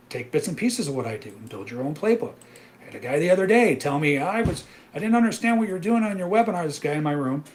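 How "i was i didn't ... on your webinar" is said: high, loud, whining retelling; whiny complaining trader. Retold or imitated. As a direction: mimic the confused trader's complaint.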